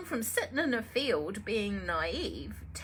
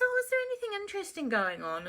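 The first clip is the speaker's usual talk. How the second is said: Phyllis asking; 10 semitones higher, much faster than usual. Acted. Phyllis asks the market woman.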